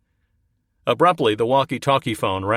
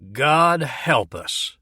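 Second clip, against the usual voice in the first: exclaiming; 6 semitones higher, much slower than usual. Acted.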